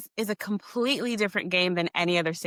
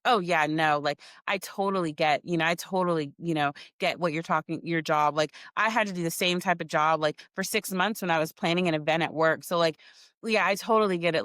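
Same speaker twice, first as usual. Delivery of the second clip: dismissive; 4 semitones lower than usual. Retold or imitated. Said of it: "he was kinda dismissive".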